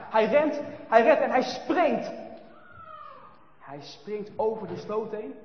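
loud, high, drawn out; dramatic climax. A narrator's reading. Narrator telling the jump into the ditch, dramatic. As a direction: make the splash land.

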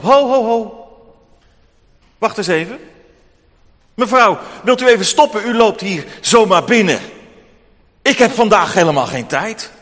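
luide, afwijzende rechter die haar de mond snoert; geïrriteerde rechter. Acted. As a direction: hoger en luider, kortaf als drukke rechter. Rechter onderbreekt de weduwe. (rechter die de weduwe ongeduldig afkapt)

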